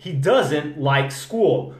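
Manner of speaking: He doesn't like school. said slowly with doesn't stressed; slow model sentence. Shown as a demonstration. Teacher modeling the sentence slowly for students. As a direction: spell out each word for the learner. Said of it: "Repara, guys, tenha atenção ao detalhe".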